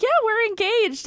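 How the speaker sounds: high, bright mock-proud announcement; smug in-character fiancée. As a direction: show off the engagement in character. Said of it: "I was like".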